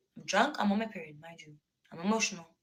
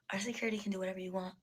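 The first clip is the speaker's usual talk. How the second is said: whisper; 6 dB quieter, much faster than usual. Retold or imitated. Quoting a network boss.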